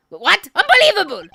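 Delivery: high, loud disbelief; outraged witness. Acted. Witness hearing the suspect may investigate, outraged shout. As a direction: explode in indignant disbelief.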